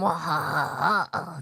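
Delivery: drawn-out, open "mwa-ha" laugh; French-style laugh. Real, not acted. Streamer thanking a viewer for Prime, French-style laugh. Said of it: "I just laughed in French".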